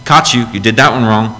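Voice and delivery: lightly voiced smug accuser; gotcha God. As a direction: play a petty God catching you out. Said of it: "just to go".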